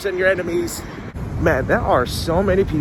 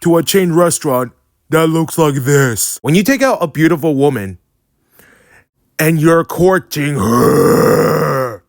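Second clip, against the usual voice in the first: loud, scolding tone; mock indignant rant; 7 dB louder, slower than usual. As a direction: play it scandalized and loud. Mock outrage at date spot.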